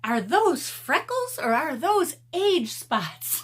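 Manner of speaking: high, slow mock-sneer; mock catty question. Vlogger quoting the rude commenter, mildly sneering. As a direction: lightly imitate the snide question. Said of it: "And then she said".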